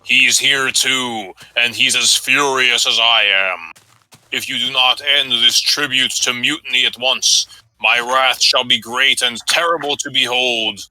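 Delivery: a hint of divine wrath; God speaking. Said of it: "says God".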